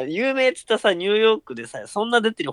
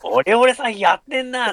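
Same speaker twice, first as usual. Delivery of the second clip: police questioning; 8 semitones higher than usual. Retold or imitated. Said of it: "職質受けてさ".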